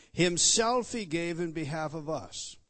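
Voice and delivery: "himself" stressed at the head of the phrase. Shown as a demonstration. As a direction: lean hard on "himself", then let the phrase fall. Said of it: "for sake of emphasis".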